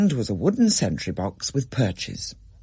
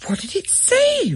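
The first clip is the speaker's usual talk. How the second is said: put-on child Rachel. A narrator's reading. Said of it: "Rachel asked".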